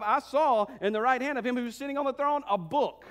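driving, emphatic sermon delivery; rally the congregation with conviction; fervent preaching. Acted. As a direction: preach it with rising fervor.

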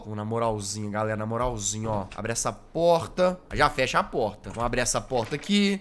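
low, hushed sneaking whisper. Real, not acted. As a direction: whisper so the nun won't hear. Sneaking past the nun.

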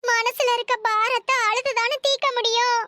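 tearful protest, sobbing at the end; grieving, weepy voice; acted crying. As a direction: plead through mild stage tears. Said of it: "மொத அழுகிறத நிறுத்து".

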